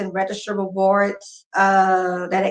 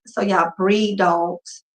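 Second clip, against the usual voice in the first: pointed question; much slower than usual. Retold or imitated. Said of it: "I'm looking at her like".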